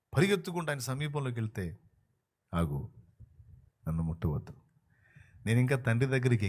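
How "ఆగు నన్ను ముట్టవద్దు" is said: much lower voice of Jesus; low, calm Jesus voice; gentle command. Acted. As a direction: hold her back softly. Jesus stops Mary.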